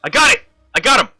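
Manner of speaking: high, loud triumphant shouting; real gamer excitement; excited yell. Real, not acted. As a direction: cheer yourself on. Finally knocks boss down.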